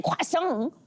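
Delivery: "croissant" the French way, kwah-SOHN; Frenchify "croissant"; French pronunciation. Shown as a demonstration. Host testing it on her co-hosts, French "croissant". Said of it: "if I said that to you guys".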